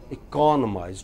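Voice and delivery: "economize" with CON stressed. Shown as a demonstration. Teacher counting syllables for class, stress on CON. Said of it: "two syllables, just count".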